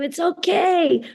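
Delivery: high-pitched soothing encouragement; retold tender reassurance, pitched well up; acted reassurance. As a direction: comfort someone crying in your arms, voice lifted. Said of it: "I hug them and I tell them".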